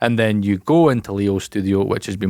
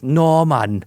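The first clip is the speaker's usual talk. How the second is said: mock Welsh accent, pitched up; 5 semitones higher than usual. Shown as a demonstration. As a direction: demonstrate a cartoon Welsh accent.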